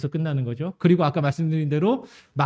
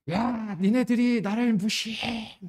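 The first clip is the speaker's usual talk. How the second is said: drawn-out, higher-pitched imitation of a drunk's rant; mock a drunk hollering at passengers, slowly; drunken homeless man ranting; 6 semitones higher, slower than usual. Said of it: "사람들한테 막 떠들어댑니다".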